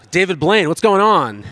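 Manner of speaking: cracking up at his own joke; amused laughing question. Retold or imitated. Joking about wife's magic trick.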